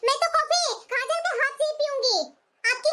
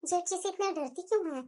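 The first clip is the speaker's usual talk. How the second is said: musing to herself; 7 semitones lower, 10 dB quieter than usual. Acted. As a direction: think aloud, keeping it private. Daughter-in-law muses alone. (मन ही मन सोचते हुए, धीमे)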